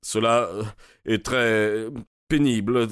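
voix tremblante et hésitante, légère montée; voix chevrotante. Acted. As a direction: une voix qui tremble à peine, mots hachés. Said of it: "d'une voix chevrotante". (voix chevrotante, coupée de pauses)

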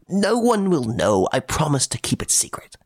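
put-on an old nobleman begging in confidence; coaxing Baron.

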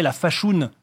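fashoun said with a round oo vowel; old Norman pronunciation. Shown as a demonstration. Linguist showing old franco-normand, fashoun with a round vowel. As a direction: say fashoun with a long oo sound. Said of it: "ça se prononçait en franco-normand".

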